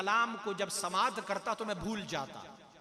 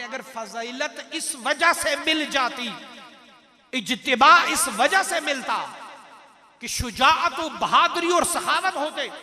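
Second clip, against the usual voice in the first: raised sermon voice with punched key words; emphatic preaching; 7 dB louder than usual. Acted. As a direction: build the argument forcefully from the pulpit. (पुरज़ोर ख़िताबत)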